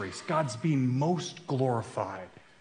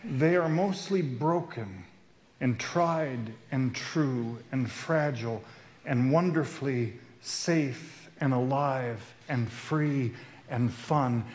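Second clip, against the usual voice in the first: preacher tenderly describing fellow runners, slowly; slower than usual. Real, not acted. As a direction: savour each word gently. Tender slow list of friends.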